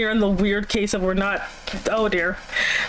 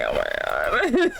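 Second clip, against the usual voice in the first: 1 mock awe; slower than usual. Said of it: "And I'm like".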